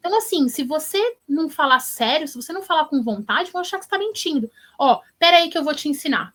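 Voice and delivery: mildly impatient lecturing, acted out; bossy instructing. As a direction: take charge and show a friend how. Classmate lectures and takes over call.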